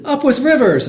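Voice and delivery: high, whooping cheer; hooting dinosaur. A narrator's reading. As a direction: hoot it like a happy duckbill dinosaur. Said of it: "And they hooted".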